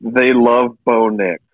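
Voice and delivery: slow, drawn-out sarcasm; sarcastic. Real, not acted. Co-host jokes to fellow hosts about fans' love, sarcastic. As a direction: say it slowly, as sarcastic praise. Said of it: "Sarcasm, sarcasm".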